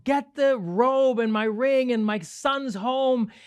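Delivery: high, slow acted shout of the father; mock joyful yell. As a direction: call out across the house in joy. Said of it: "starts yelling".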